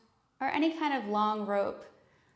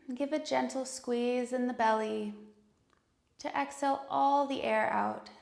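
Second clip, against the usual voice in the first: calm, unhurried meditation voice with long pauses; guided meditation. Acted. Yoga teacher leading students into breath and intention, calm guided meditation.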